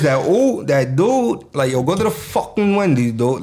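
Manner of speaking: heavy emphasis on the "ooh" vowel in "dude"; demonstrated New York emphasis on "dude"; over-emphasized words. Shown as a demonstration. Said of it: "we put so much emphasis in shit".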